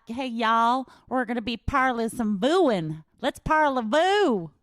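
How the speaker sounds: a Southern belle mangling French; Southern accent. Retold or imitated. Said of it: "So she talked like this".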